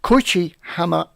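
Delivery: put-on Japanese accent, name only. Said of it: "that's a great Japanese accent you got".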